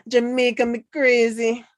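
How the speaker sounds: "Jamaica" said as "Jah-may-ka" in a light Jamaican lilt; "Jamaica me crazy" tossed out in a mock Jamaican accent. Shown as a demonstration. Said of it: "That's the way you say it, right?".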